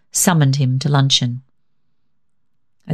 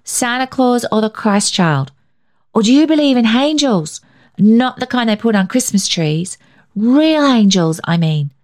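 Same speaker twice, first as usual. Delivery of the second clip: put-on high, eager child voice; a small boy chattering to grandpa; bright questioning child; little boy Billy; 7 semitones higher than usual. Billy keeps asking about angels.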